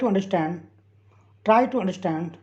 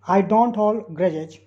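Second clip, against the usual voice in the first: slow repeat; much slower than usual. Shown as a demonstration. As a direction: still slow, but more flowing. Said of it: "teacher repeats sentence".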